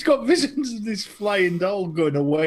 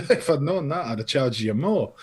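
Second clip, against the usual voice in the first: lightly acted Scottish shopkeeper; a touch of put-on Scottish; Scottish accent; 3 semitones lower than usual. Joke-teller as shopkeeper answering customer, mock Scottish accent. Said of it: "did you do that in a Scottish accent".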